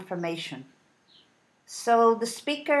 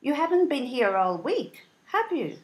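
model question tag; 4 semitones higher than usual. Shown as a demonstration. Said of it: "Listen carefully and repeat".

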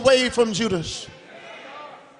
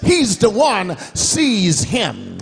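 a hint of Judas calling out orders; Judas giving the sign; 2 semitones higher, slower than usual. Judas tells the Roman soldiers whom to seize, commanding call.

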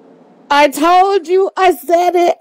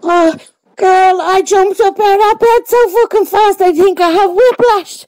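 excited; 5 semitones higher than usual. Real, not acted. Winner overjoyed, jumped out of bed.

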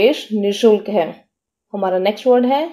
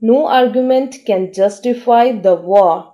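slow, careful dictation pace; teacher reading an example sentence very slowly; much slower than usual. Shown as a demonstration. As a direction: read it out slowly for learners to follow. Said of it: "इसका meaning होता है तर्क".

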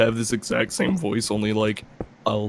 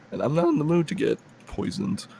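voice crack; 5 semitones higher than usual. Real, not acted. Player grumbling about getting poisoned, voice cracking. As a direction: voice cracking upward mid-sentence. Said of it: "have a fucking voice crack".

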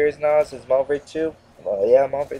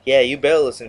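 louder, punchy threat; loud warning; 6 dB louder, faster than usual. Acted. Gamer warning Infinity Ward, raised voice. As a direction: call the developers out loud and firm.

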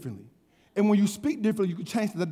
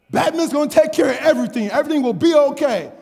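put-on confident little kid; 4 semitones higher, 5 dB louder than usual. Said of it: "he's, he's confident".

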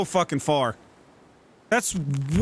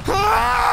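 high loud scream breaking into laughter; 7 semitones higher, 5 dB louder than usual. Real, not acted. Gamer as the climber falls, scream then laugh. Fall in the game.

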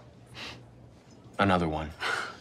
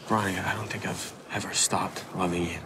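tender whisper. Acted. Love confession.

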